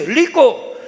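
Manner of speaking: high-pitched son echoing "lico"; son repeating. Acted. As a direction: parrot dad's word, L for R. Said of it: "Hijo dice".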